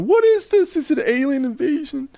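high, startled Southern voice; hammed-up Southern alarm; comic high-pitched Southern accent. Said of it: "I use a Southern accent".

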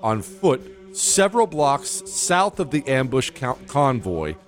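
formal, measured citation reading; crisp military citation. Acted. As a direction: read it like an official commendation. Reads citation over music.

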